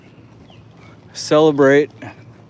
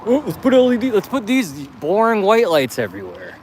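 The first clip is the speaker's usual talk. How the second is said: high mocking voice; mock the guy who chose LED lights; mocking LED inventor; 10 semitones higher than usual. Mocking the LED lighting inventor, high voice. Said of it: "whoever the fuck came out with L E D lighting was like".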